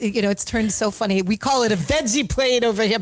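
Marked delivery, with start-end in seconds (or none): 1.2-3.0 lightly mocking a Pennsylvanian; a hint of a smug local correcting him. Mocking Oz's critics with a mild twang. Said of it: "as everybody has gone".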